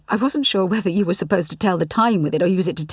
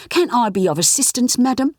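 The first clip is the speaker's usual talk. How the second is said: higher, louder mock shop-assistant politeness; overpolite accent; 6 semitones higher, 3 dB louder than usual. Clyde mocking his boss's customer manner, overpolite. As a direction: simper like a too-polite shop clerk. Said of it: "Adopting an overpolite accent".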